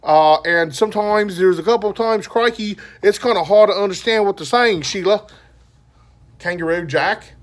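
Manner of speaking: hammed-up joke Australian accent; mock Australian accent. Joking that viewers might need the subtitles, mock Australian accent. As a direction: slip into a jokey Aussie accent. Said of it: "they're all in a Australian accent".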